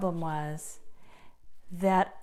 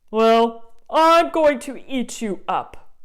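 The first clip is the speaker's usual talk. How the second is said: loud menacing threat; troll threat; 3 semitones higher, 8 dB louder than usual. Acted. Troll telling the goat he'll eat him, loud.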